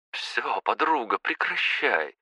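мягко и тише, утешая; успокаивает подругу; warmly. Acted. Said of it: "тепло ответила Мико". (тепло утешает плачущую подругу)

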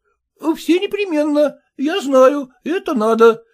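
high, eager, rattled-off assurances; muttering clerk. Acted. Son-in-law mumbling promises to father-in-law, high. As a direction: reassure him over and over. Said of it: "бормотал Порфирий Васильевич".

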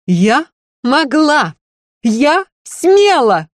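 трагическая актриса, медленно, высоко и громко; вызывающий сценический крик; как в Макбете. A narrator's reading. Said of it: "роскошный голос Мерцалова ... как в сцене из Макбета". (актриса в ссоре отвечает мужу как на сцене)

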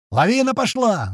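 high, drawn-out alarmed cry; yelled warning. A narrator's reading. Gunner warning of avalanche, drawn-out yell. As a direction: stretch the alarm out high and slow. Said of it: "заорал Колючий".

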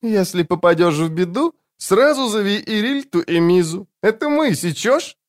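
put-on high, conspiratorial drunk woman; whispering. A narrator's reading. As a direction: lean in and confide, tipsy. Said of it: "наклонилась поближе и прошептала".

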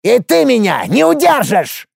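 high, creaky shriek of spite; shrieking dwarf. A narrator's reading. Dwarf Hopus shrieks at Alex from under his dome, high and creaky. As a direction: squeal the insult.

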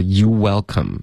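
"you welcome" with no r-colouring on "you"; missing r sound. Shown as a demonstration. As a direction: imitate the learner's pouted "you" in "you welcome". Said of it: "You're的这个儿化音没听出来". (“you welcome”嘟嘴，不带儿化音)

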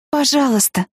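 high, coaxing plea; pleading. Acted. Heroine coaxing her shy boyfriend, high pleading. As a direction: coax him sweetly. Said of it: "попросила я".

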